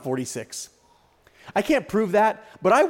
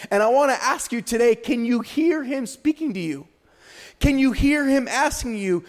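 higher, emphatic preacher's delivery at the start; impassioned preaching; 5 semitones higher than usual. Real, not acted. Preacher urges the church to hear God speaking, impassioned preaching. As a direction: preach it with weight on key words.

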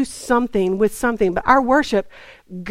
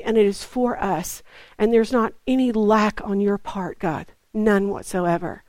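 hushed, unhurried praying, falling away at phrase ends; earnest prayer; 4 dB quieter than usual. Real, not acted. Preacher praying to God after the declaration, soft and earnest. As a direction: pray it gently in short, spaced phrases.

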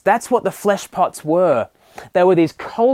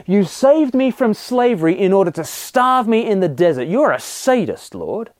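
mock accusation; 3 semitones higher than usual. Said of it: "We're effectively saying".

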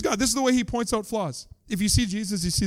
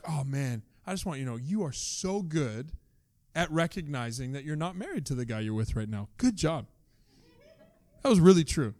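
gentle; 3 semitones lower than usual. Retold or imitated. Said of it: "how gentle this is".

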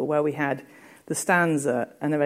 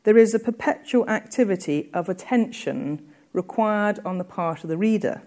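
reading a quotation aloud, a little higher; quoted reading; 4 semitones higher than usual. Shown as a demonstration. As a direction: read the quote out with care. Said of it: "and I quote".

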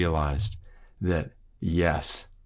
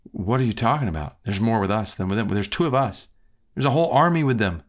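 incredulous servant; faster than usual. Retold or imitated. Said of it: "Elisha's servant is probably thinking".

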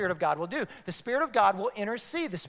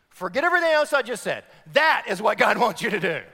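emphatic declaration; 2 semitones higher, 7 dB louder, faster than usual. Retold or imitated. Pastor voicing God's prayer insight.

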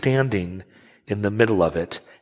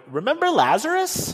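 nagging disciples. Retold or imitated.

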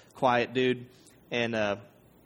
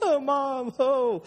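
high hammed-up fake laugh to play along; a strained put-on chuckle, much higher; forced laugh; 12 semitones higher than usual. Defendant fakes a laugh along with the DA, high and forced. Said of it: "Better play along".

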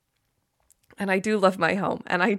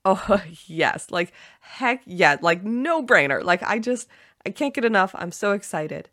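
gleeful excitement. Shown as a demonstration. Host modelling effortless gratitude for listeners, excited. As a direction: sound like you can't get enough. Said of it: "that make you go".

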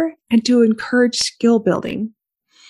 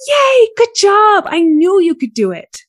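animated cheer; 9 semitones higher, 4 dB louder than usual. Retold or imitated. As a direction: celebrate like a proud parent. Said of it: "the praising gets a little more animated".

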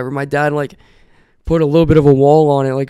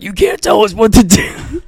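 higher-pitched mock drunken retort; lightly voiced drunks; 6 semitones higher than usual. Drunk neighbors defying the dad, mildly hammed-up voice. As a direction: lightly imitate drunk neighbors talking back. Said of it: "And they're drunk".

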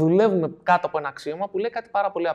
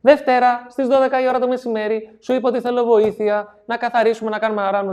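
accusing list from notebook; 6 semitones higher, 4 dB louder than usual. Retold or imitated. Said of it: "αρχίζει και του λέει".

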